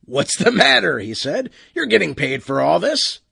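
grinning, loud ship captain; captain's voice. Acted. Captain teasing the Optus.

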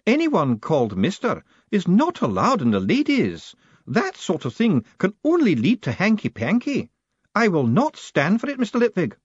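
a formidable lady laying down the law; imperious high-pitched battleaxe; demanding old woman. Acted. Matron's voice held.

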